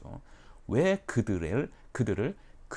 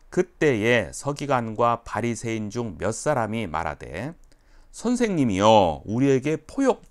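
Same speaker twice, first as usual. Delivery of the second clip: scripture reading; 6 dB louder than usual. Acted. Reads scripture aloud.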